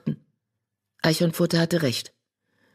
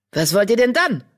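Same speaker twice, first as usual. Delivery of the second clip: grumpy; 6 semitones higher, 3 dB louder than usual. Acted. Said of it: "schlecht gelaunt".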